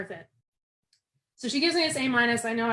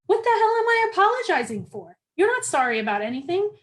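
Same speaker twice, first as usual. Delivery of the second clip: sudden higher, louder outburst of indignation; inner rage; 7 semitones higher, 5 dB louder than usual. Retold or imitated. Shamed trainee's anger turning on herself, indignant outburst. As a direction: let the fury burst out of you. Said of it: "it's absolute freaking rage".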